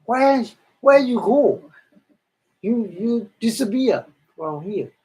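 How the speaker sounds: high, loud, startled asking; a celestial being startled by her friend vanishing; astonished question. Retold or imitated. Celestial asking her friend where she vanished, high and startled. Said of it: "the other celestial being asked to her".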